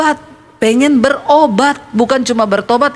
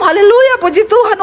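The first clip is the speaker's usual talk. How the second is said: parrot voice; 7 semitones higher than usual. Retold or imitated. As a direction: mimic the parrot's praise. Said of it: "Supaya burung beo saya bisa shalom". (menirukan suara beo, tinggi dan keras)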